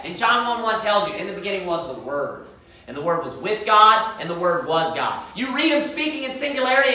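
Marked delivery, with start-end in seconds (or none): 1.1-5.2 scripture recitation. Acted. Recites John one one.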